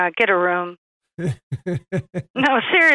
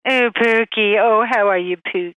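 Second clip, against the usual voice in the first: pet-name cooing; 3 dB louder than usual. Retold or imitated. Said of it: "using pet names".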